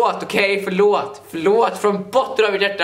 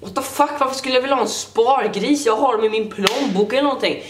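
higher, indignant disbelief; mock outrage; 3 semitones higher than usual. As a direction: act shocked and offended by the idea. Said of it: "jag kanske inte säger det så aggressivt". (spelad upprörd misstro)

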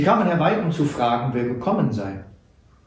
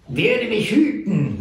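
laughing; 8 semitones higher, slower than usual. A narrator's reading. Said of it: "lachte der Kleine".

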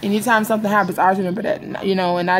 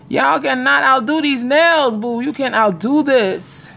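sassy brag; 5 semitones higher, slower than usual. Real, not acted. Showing off her nails to viewers.

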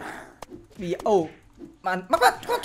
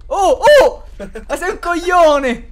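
higher, louder, slow indignant yell; exasperated outburst; 8 semitones higher, 9 dB louder, slower than usual. Real, not acted. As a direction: blow up at your teammate. Teammate runs him over. (sfogo esasperato ad alta voce)

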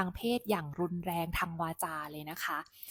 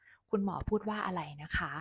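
calm, composed. Shown as a demonstration. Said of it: "ให้เรานิ่ง แล้วก็ถามเขาว่า".

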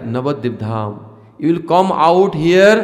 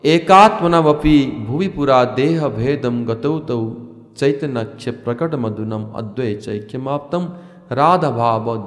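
reciting a Sanskrit verse. Acted.

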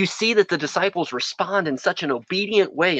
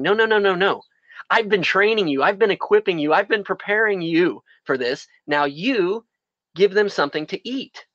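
insistent Jesus; 3 semitones higher than usual. Acted. Preacher acting Jesus, insistent.

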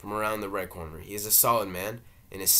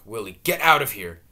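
shouting; 11 dB louder than usual. Acted. Mother shouting at Willie.

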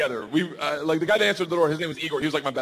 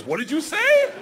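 laughing gangster; 12 semitones higher, 5 dB louder, slower than usual. Retold or imitated. Gangster asks, laughing, high.

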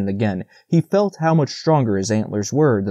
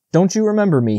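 higher, friendly question; pitched-up, pleased lilt; 7 semitones higher than usual. A narrator's reading. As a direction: greet an acquaintance, pleased to be seen. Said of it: "putting on a pleased expression".

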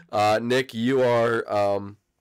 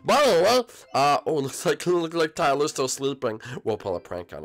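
put-on kid character voice; 3 semitones higher than usual. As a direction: play the bratty kid in the funhouse. Roleplay as Bowser Junior.

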